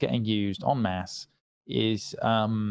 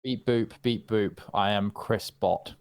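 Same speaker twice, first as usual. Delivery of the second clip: robot voice; slower than usual. Pretend. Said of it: "Is that what you'd be like?".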